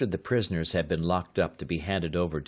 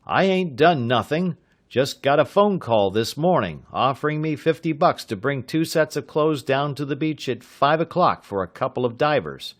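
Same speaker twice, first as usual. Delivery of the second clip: louder, higher frantic protest; 7 semitones higher, 5 dB louder than usual. A narrator's reading. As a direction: plead innocence in a panic. Arrested man protests.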